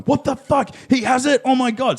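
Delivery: high, shocked gasping of the diners; mock panic from frightened diners; high pitched alarmed diners reacting to a fever; panicked diners. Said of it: "people in this restaurant are going".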